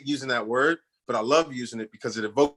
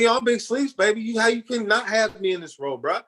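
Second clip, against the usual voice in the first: cocky hype; 10 semitones higher than usual. Retold or imitated. Hyping himself to the casting director with mock swagger. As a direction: sell yourself like a big star.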